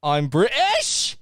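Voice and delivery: drawn-out teasing British voice; mocking a friend's British accent. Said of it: "this is your accent".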